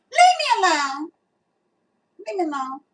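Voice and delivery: fast, high laughing leave me alone; playful laughing dismissal; laughing brush-off. Real, not acted. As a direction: wave the critics off with a giggle.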